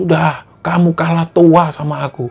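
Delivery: slow, mocking, laugh-filled, gloating tone. Retelling what a man told an older shaman, performing it as a hearty laugh. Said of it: "ketawa kebahak-bahak".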